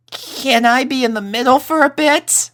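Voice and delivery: put-on high, hesitant boy voice; nervous young colt. A narrator's reading. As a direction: ask it like a scared kid.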